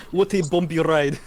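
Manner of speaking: wobbly put-on Russian accent with a laugh; amused, imperfect Russian accent. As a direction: try a Russian accent and nearly crack up. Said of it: "able to maintain that accent".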